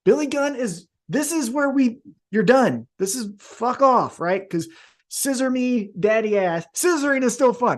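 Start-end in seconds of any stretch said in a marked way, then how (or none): 5.1-6.6 higher, playful catchphrase delivery; mock wrestler catchphrase; catchphrase callout. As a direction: toss off the catchphrase with a grin. Catchphrase performed as a bit.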